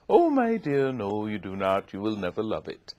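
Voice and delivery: lightly voiced grand Southern lady; Missus Flowers. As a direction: gently contradict a child, like a genteel mentor. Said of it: "she said".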